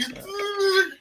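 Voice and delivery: high imitated crying noise; mock cry. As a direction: imitate a weepy movie cry. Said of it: "where he's like".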